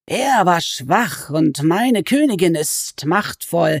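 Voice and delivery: high, slow, wheedling creature voice that climbs on each nein; sly goblin voice. Acted. Goblin crouched over Alice, complaining she is a sorceress, in a high sly voice. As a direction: stretch the words like a gloating, sulky goblin.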